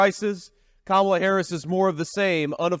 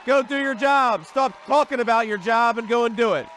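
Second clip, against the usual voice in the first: exasperated calling out; 5 semitones higher than usual. Acted. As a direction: call her out, fed up and demanding. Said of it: "all of us with common sense are saying".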